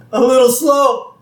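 high, loud mock guffaw; laughing. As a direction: crack up at your own anecdote. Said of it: "And he starts laughing".

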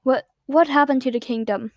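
unvoiced, hushed question; whispered retake. Shown as a demonstration.

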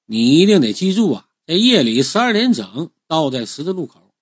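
firm reminder of the key step. Acted. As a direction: press the point so he remembers. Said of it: "我就加重语气，提高声调".

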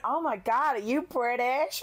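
lightly put-on American accent; a hint of imitation American accent. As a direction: mimic him with a rough American accent. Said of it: "she's doing an American".

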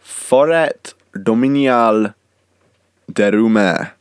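slow, loud hammed-up French accent. Shown as a demonstration. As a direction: show off a bad French accent. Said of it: "you ready for my amazing French accent?".

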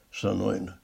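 ordinary delivery, nothing marked

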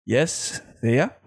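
a hint of the reality-show host voice; Big Brother voice. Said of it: "nagaya ko ba yung boses?".

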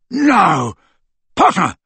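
high, loud outburst; shouting. A narrator's reading. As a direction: break off and shout at an enemy. Crabbe breaks off to attack.

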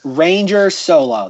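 spelled out slowly for a listener; slow, clear repeat. Real, not acted. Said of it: "I didn't hear that".

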